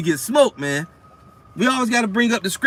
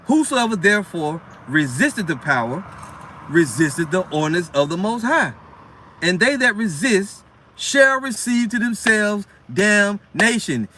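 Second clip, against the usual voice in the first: slow, drawn-out solemn verse reading; scripture reading; slower than usual. Acted. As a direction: stretch the last line out like a pronouncement. Reads scripture aloud.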